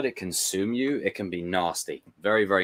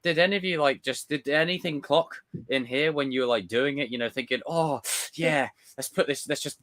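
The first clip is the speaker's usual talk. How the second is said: mock questioning the studio; 6 semitones higher than usual. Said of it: "It's just like".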